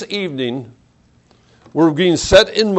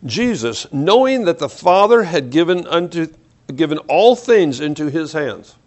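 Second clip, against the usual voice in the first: slow reading. Shown as a demonstration. Preacher rereads the verse to his congregation, slowly and deliberately. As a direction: read slowly and deliberately, phrase by phrase. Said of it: "let's read this slowly".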